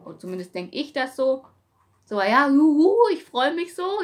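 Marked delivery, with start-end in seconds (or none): 2.1-4.0 loud, high happy cheer; joyful cheer. Retold or imitated. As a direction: cheer like a small victory. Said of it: "und dann denkt". (laut und freudig jubelnd)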